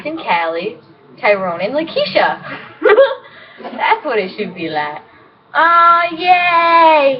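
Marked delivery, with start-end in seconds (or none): 5.6-7.2 1 sing-song gush. Real, not acted. Gushing over her boyfriend.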